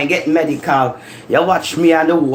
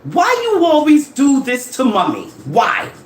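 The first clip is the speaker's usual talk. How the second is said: raised voice to brother; 9 semitones higher than usual. Retold or imitated. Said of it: "I said".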